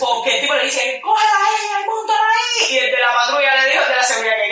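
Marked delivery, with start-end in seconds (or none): 1.0-2.7 much higher barked order; imitated order. The security man ordering the police to take her, high. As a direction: order them to grab her.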